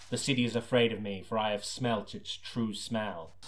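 a hint of hard-boiled detective voice-over; lightly brooding noir voice-over; noir narration.

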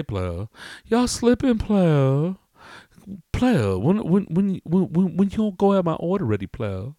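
high, swooping indignant customer; complaining customer. Acted. Irate customer griping to barbecue staff, high-pitched complaint. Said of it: "He's all".

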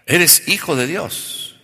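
slow, loud, high proclamation; preaching proclamation. Real, not acted. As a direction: declare it to the whole church. (proclamación lenta y fuerte)

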